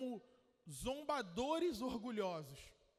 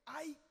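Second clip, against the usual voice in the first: mock pain cry; 3 semitones higher than usual. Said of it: "o ai do jogador de futebol".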